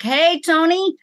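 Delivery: ordinary talk, nothing marked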